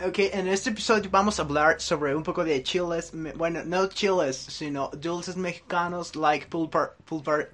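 Spanish with a mock American gringo accent. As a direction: play a gringo influencer fumbling Mexican candy names. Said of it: "dilo como en acento gringo". (acento gringo burlón)

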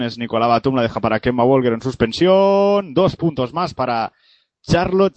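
quick radio basketball commentary; live play-by-play. Acted. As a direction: call the game live as it happens. (narración deportiva en directo)

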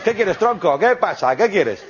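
hammed-up pal voice; matey bank clerk. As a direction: act like a mate being hit up for cash. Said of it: "como si le pidieras dinero a un colega".

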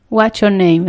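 English in a mock non-native accent; deliberately bad English accent. Shown as a demonstration. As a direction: mispronounce the English on purpose, playfully. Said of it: "lo pronuncio así". (inglés mal pronunciado a propósito)

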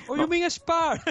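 playing the fighter who just got it; Darren Till's confused question. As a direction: ham up the penny-drop confusion. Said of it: "Sí, el spa".

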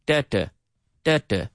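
DA, DA as a stressed beat, then a weak one; two-beat rhythm. Shown as a demonstration. Teacher beating out the word's rhythm, two beats. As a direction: tap out "da, da" in paired syllables. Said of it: "talking about two-syllable words".

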